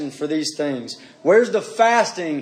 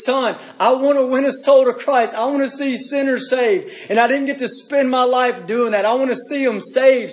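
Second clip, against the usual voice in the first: dying father's plea; 5 semitones higher than usual. Retold or imitated. A father on his deathbed pleads with his son, pleading. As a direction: beg your son through tears.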